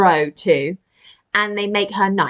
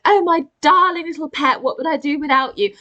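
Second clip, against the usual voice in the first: higher-pitched gushing queen; doting queen; 6 semitones higher than usual. Retold or imitated. Queen to her pet monkey, gushing fondly. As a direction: coo over a darling pet. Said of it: "the queen is like, ... surrogate child".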